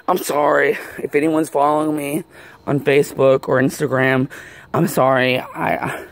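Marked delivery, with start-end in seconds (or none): 5.4-6.0 heavy breathing; panting through the words. Real, not acted. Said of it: "you can tell how heavily I'm breathing".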